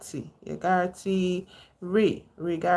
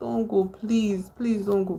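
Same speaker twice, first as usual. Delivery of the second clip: mock, begging, pleading voice; 3 semitones higher than usual. Retelling a film scene where a mother begs her son to stay: imitating a pleading mother. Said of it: "she's trying to encourage him not to".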